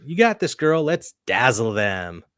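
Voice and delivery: high-pitched self pep talk; lightly acted pep talk; mock pep talk. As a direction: psych yourself up, pitched high. Reading a character's self pep talk.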